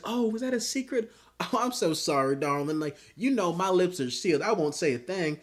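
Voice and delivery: high, sugary fake apology, laughing at the start; Firecracker mock innocence. Imitating a woman feigning innocence to Homelander, sugary mock-sweet voice. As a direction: gush a sweet, insincere sorry. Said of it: "and she's like".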